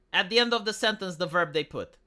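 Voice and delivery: playful hint of Yoda phrasing; Yoda speak. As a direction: lightly mimic Yoda's backwards word order. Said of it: "Germans speak like Yoda".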